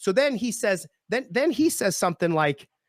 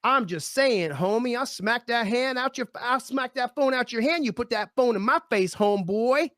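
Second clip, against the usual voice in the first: a light imitation of the guard's street slang; lightly voiced street tough, casual threat; mock homie talk, barely changed voice; hood talk; 6 semitones higher than usual. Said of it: "he decides to start with his hood talk".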